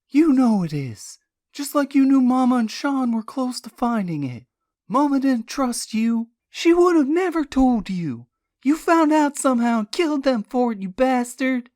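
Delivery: high, loud and bitter; furious accusation. Acted. Niece accuses uncle of killing her mother, furious. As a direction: hurl the accusation at him.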